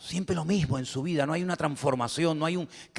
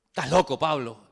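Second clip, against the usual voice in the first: mocking laugh. Repeating Festo's line laughing.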